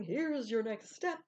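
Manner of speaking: slow, drawn-out divine voice from afar; slow voice of God. Retold or imitated. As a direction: lightly voice God as a distant inner voice. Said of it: "a still small voice inside your head or God going".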